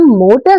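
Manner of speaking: मोटर with stressed मो and light टर; stress on first syllable. Shown as a demonstration. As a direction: press on मो in मोटर, let टर go light. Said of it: "तो मो कहने के लिए हमें स्ट्रेस देना पड़ता है". (मोटर में मो पर ज़ोर, टर हल्का)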